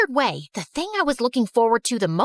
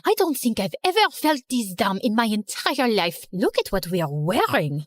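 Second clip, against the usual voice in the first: put-on French girl voice. Genevieve voiced.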